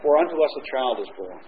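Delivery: put-on soft, tender reading of "For unto us a child is born."; quiet correct quote. Shown as a demonstration. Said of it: "he doesn't say that".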